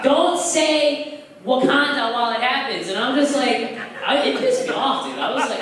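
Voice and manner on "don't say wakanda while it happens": high, slow, prissy put-on voice; mocking woke girl. Woke girl scolding the comic, mocked in high voice. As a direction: lecture him like a scold. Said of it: "she's just like".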